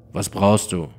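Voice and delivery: knapp, rau und monoton, etwas lauter; rauer Monoton. Acted. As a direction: ein wortkarger Kerl, rau und ohne Melodie. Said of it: "in seinem gewohnt rauen Monoton". (rau und monoton, kaum Betonung)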